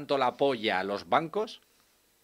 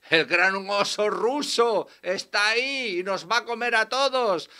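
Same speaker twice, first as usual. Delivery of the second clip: mock alarmist; 3 semitones higher, 4 dB louder than usual. Parodies a fearmonger.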